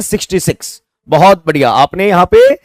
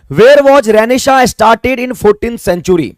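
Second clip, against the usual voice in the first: deliberate, unhurried quiz read-out; slow read-out; 3 semitones higher, much slower than usual. Shown as a demonstration. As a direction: question read very slowly, word by word. Teacher reads the quiz question aloud.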